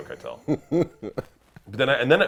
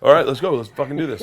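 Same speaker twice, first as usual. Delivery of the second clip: bear saying let's go; 3 semitones higher, 8 dB louder than usual. Retold or imitated. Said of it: "the bear was like".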